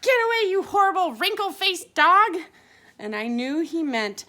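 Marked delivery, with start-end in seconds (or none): 0.0-2.4 loud, high angry outburst; barked order. Acted. Big dog driving off the pug, barked angrily. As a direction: bark it out like a cross dog. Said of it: "He barked".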